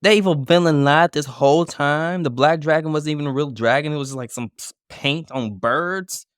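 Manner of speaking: mock outrage. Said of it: "Oh my god".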